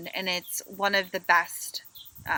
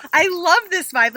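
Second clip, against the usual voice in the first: high, loud excited gush; delighted gush; 9 semitones higher, 8 dB louder than usual. Retold or imitated. Passenger answering the GPS's break offer, a loud delighted gush. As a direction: sell how much you love it.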